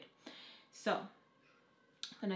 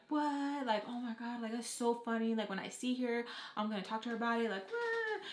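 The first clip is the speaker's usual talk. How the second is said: high, delighted disbelief; imitating a thrilled brother; mock amazed; 4 semitones higher than usual. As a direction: play up the shocked glee. Brother amused, shocked reaction.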